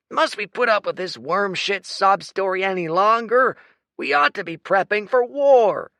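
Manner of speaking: loud, high angry complaint; fed up, spit it out; angry soldier. A narrator's reading. Lieutenant exasperated.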